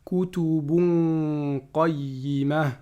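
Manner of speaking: slow measured chanting of the verse; Quran recitation. Acted. Teacher reciting Surah Al-Bayyinah to students, chanted. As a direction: recite each word with care.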